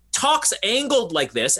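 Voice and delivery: a hint of a crazy movie doctor; Peter Sellers impression. Shown as a demonstration. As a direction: lightly imitate an odd, angled way of talking. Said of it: "doing an impression of Peter Sellers".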